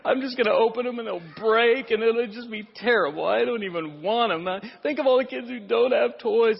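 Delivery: put-on a touch of a sobbing pessimist kid; mock crying child. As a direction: play the gloomy twin near tears, lightly. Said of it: "he was just sitting there crying".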